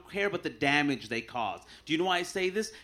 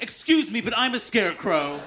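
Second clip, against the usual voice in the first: offended audience member; 6 semitones higher, 4 dB louder than usual. Retold or imitated. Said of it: "somebody would get up and be like".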